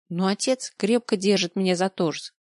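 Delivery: ordinary delivery, nothing marked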